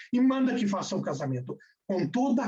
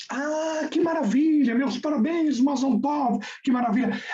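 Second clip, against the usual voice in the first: high, louder delighted cheer; excited congratulations; 5 semitones higher, 3 dB louder than usual. Acted. Rashi congratulating the groom on his wedding: high, delighted cheer. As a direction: burst out with joy at the news.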